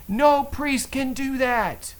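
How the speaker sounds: high, loud, slow mock shout; angry yell. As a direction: yell it after him in a rage. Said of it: "He's, he's yelling at me".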